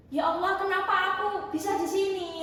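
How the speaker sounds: mild mock wail; retold distress. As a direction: re-enact a tearful plea to God. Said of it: "saya nangis, perasaan saya kayak gini".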